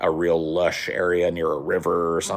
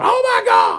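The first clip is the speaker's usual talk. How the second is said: mock very high, loud, alarmed panicked cry; 7 dB louder than usual. Retelling mom's reaction to finding a tick: imitating mom panicking. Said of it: "Calm down, calm down".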